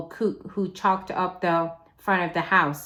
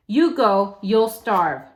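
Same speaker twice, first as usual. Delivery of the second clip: louder, pressing warning; urgent warning; 5 dB louder than usual. Acted. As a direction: push the threat hard. Amanda argues he must stay.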